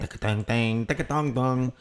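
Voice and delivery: ice cream van jingle, spoken; mouthed van tune; imitated chimes. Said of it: "a different tune".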